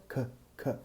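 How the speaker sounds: a soft clipped k, the weak first sound of career; weak syllable demo. Shown as a demonstration. Teacher isolating the weak first syllable of career. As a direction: tap the k lightly, no vowel weight. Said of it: "A primeira sílaba é fraca".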